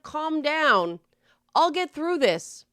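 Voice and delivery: calm reassurance to oneself; self-reassuring. Retold or imitated. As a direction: soothe yourself through it. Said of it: "that's self-reassuring".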